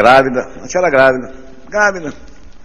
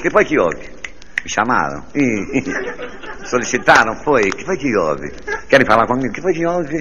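camp gay voice; 2 semitones higher than usual. Acted. Camp gay character repeats question.

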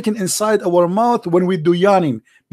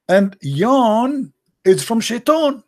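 slow solemn reading; 5 semitones higher, much slower than usual. Acted. Reads hadith with mock gravity.

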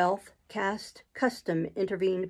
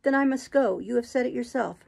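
anguished cry; 4 semitones higher, 4 dB louder than usual. Acted. Jane's anguished answer.

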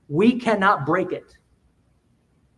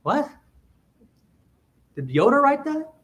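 mock confused "What?", pitched up on the Yoda line; mock bafflement; 8 semitones higher than usual. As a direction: play puzzled at odd word order. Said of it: "It makes you go".

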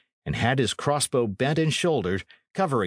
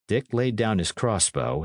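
plain reading voice

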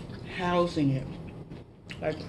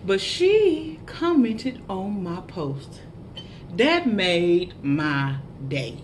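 excited; 3 dB louder, much slower than usual. Real, not acted. Thrilled about a comment.

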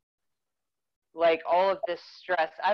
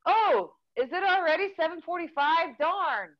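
mock disappointment; 10 semitones higher than usual. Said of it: "I was like".

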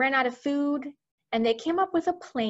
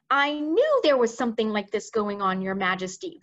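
lightly voiced army chief, louder attack; army chief, indignant; 5 dB louder than usual. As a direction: report to the monarch with mild indignation.

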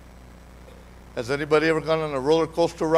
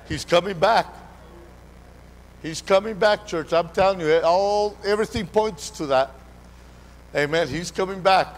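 preaching fervour; 3 semitones higher than usual. Real, not acted. Rising preaching climax.

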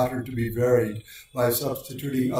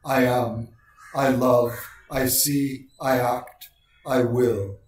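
poem recitation; slower than usual. Shown as a demonstration. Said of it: "five affirmations manifesting her indomitable spirit".

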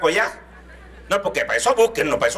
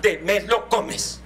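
slow stern command; 3 dB quieter, much slower than usual. Retold or imitated. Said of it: "mi mamá que decía".

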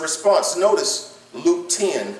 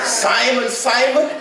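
serious Jesus; 5 semitones higher, slower than usual. Retold or imitated. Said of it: "Jesus called your name twice, it's always serious".

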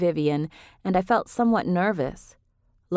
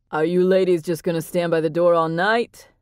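lightly voiced Frankie; 4 dB louder than usual. A narrator's reading. Frankie calls out jokingly.

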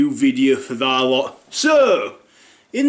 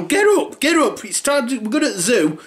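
much higher wake-up call; 9 semitones higher than usual. Retold or imitated. Dad calling son to get up for the zoo. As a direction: yell up the stairs to rouse the lad.

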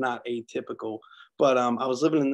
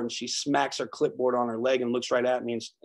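usual speaking voice

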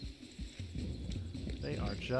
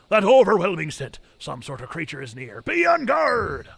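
put-on gruff old fisherman; 5 dB louder than usual. Voices the gruff captain.

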